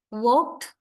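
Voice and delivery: "walked" ending in a crisp t, "wawkt"; final t sound. Shown as a demonstration. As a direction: say "walked" as one syllable with a t at the end. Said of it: "this E D is pronounced mostly as t sound".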